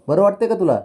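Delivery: high cooing. Real, not acted. Mother coos at baby during massage, high and loud.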